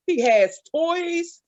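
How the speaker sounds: slow emphasis. Shown as a demonstration. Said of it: "repeated emphasis".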